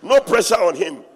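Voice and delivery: loud pointed mockery; emphatic dig. Real, not acted. Emphatic mockery of carefree assistant.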